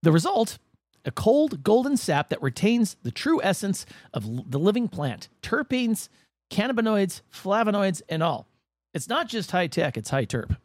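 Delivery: measured feature narration with punched key words; scripted segment read. Acted. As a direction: read it like a documentary script, pausing for effect.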